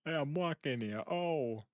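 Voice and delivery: high-pitched mock Jersey Italian; hammed-up Italian-American exclamation; Jersey Italian accent. Streamer imitating an old Italian man's rant, high Jersey Italian accent. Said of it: "It's just, like, the Jersey Italian".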